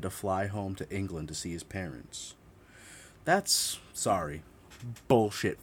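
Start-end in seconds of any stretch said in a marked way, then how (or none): 3.2-5.6 sudden high outraged squeak; incredulous. Real, not acted. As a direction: disbelief jumps out of her. Outraged reaction to the alibi.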